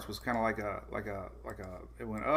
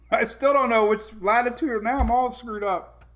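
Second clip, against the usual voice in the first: laughing; 9 semitones higher, 8 dB louder than usual. Real, not acted. Laughing at her own mix-up.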